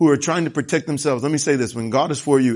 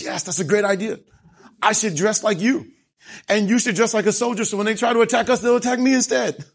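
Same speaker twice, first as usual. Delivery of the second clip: lightly voiced foolish king, higher; mock naive king; 6 semitones higher than usual. Preacher mocking a foolish king's eager plan. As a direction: play the gullible king agreeing too eagerly. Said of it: "this massive amount of wisdom says".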